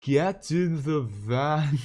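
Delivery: loud, high, drawn-out mock Irish accent. Shown as a demonstration. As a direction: ham up an Irish accent that veers toward Scottish. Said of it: "Show us your Irish accent".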